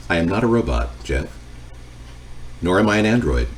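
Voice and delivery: flat robot voice, no melody; monotone robot. Pretend. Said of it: "I sound like a monotone robot".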